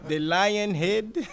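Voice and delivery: high, loud, slow impression of a friend; Dre. Comic quotes his friend for laughs, slow put-on voice. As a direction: stretch each word out in a put-on voice. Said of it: "As my friend Dre would say".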